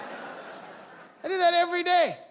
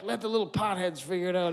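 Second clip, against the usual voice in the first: mock shout; 4 semitones lower, faster than usual. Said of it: "People making it were like".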